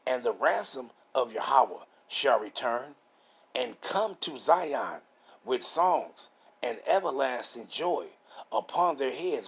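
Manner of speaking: slow, measured Bible reading; deliberate, phrase-by-phrase preacher's reading; scripture reading. Real, not acted. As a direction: read the verse out with drawn-out key words. Reads scripture aloud.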